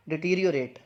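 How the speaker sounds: डिटीरियोरेट in full, "di-teer-i-o-rate"; careful model of डिटीरियोरेट, falling at the end; correct pronunciation. Shown as a demonstration. Teacher models a new word for learners, correct pronunciation. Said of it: "इसकी जो सही pronunciation है".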